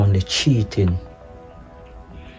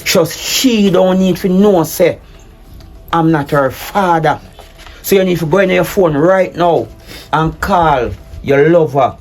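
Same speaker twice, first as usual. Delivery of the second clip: angry commands; 6 semitones higher than usual. Acted. Husband orders wife to end the affair, angry commands. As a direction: tell her what she must do, seething.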